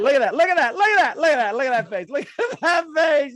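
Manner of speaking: delighted teasing. Real, not acted. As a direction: crow with glee over a beaming face.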